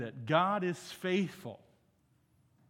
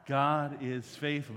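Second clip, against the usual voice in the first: "God is faithful" slow, with weight on each word; emphatic; 3 dB louder, slower than usual. Shown as a demonstration. Preacher cueing the congregation to join "God is faithful", emphatic. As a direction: lean firmly on "God is faithful". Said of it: "say it a little bit more emphatically".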